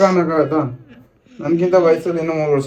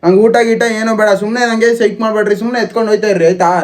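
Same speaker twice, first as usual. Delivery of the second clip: angry; 4 semitones higher, 3 dB louder than usual. Acted. Angry refusal in quarrel.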